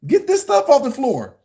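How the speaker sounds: high mock dad nagging. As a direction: lay down the rules to a preteen. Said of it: "And boy".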